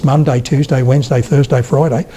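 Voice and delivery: wide-mouthed Suffolk, sounding nearly Australian; Suffolk, mouth wide open. Shown as a demonstration. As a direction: open right up on Suffolk weekdays. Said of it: "Suffolk accent with my mouth wide open".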